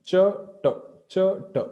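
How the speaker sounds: "cha, ta" crisply apart, tongue moving up and back; tongue-movement demo. Shown as a demonstration. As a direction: alternate palatal "cha" with retroflex "ta". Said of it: "You'll see the movement of the tongue".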